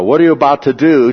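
urgent question. Retold or imitated. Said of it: "The centurion responds with".

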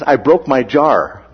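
put-on Boston "jaw", coming out as "jar"; Boston accent. Boston friend corrects the misunderstanding, imitated Boston accent. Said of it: "pronunciations like that would be very identifiable".

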